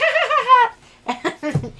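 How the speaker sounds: high, loud mock laugh; imitating her laugh. The rep laughing off her complaint, high mock laugh. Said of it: "She's like".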